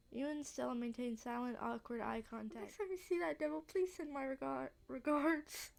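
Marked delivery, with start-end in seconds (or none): 2.6-5.7 put-on higher-pitched try at an English accent; attempted English accent. Old Gretchen sends regards to the cat, attempted English accent. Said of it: "I keep thinking about, like, uh, English accent".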